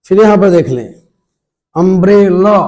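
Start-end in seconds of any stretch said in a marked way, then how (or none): 1.8-2.6 अम्ब्रेला ending in a short 'luh', louder; correct pronunciation. Shown as a demonstration. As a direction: model अम्ब्रेला as 'um-brel-luh'. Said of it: "अम्ब्रेला बोलना है।". (अम्ब्रेला को 'अम्ब्रेल' + छोटा 'अ')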